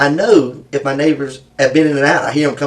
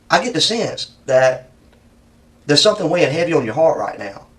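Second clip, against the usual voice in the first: gentle sympathetic. Real, not acted. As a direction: coax him gently. Interrogator turns gentle and sympathetic.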